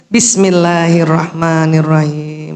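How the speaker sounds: slow, devout basmalah; slow recitation. Shown as a demonstration. Teacher guiding the mothers through the basmalah slowly. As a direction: draw each syllable out.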